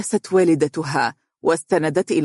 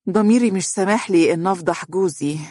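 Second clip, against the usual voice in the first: higher-pitched, coy insinuation; hint craftily at a secret you won't tell; sly daughter; 4 semitones higher than usual. A narrator's reading. Daughter slyly confiding in her mother about her husband. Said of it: "وتقول بدهاء".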